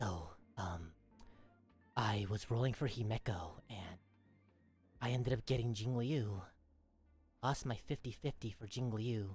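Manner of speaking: hushed, very low, very quiet soft half-whisper. Demonstrating a voice half-whispering into a listener's ear, half-whispering into your ear. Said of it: "just whispering into your ear".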